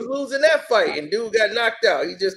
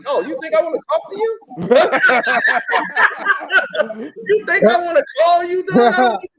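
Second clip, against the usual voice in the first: higher-pitched incredulous questions; mock-incredulous, rising at the ends; retold scornful disbelief; 5 semitones higher than usual. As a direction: act out a mocking brush-off. Retold scornful brush-off in quarrel.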